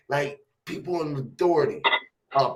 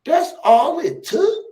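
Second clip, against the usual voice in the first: imitating the principal; 8 dB louder, slower than usual. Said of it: "principal and them was looking at me and said".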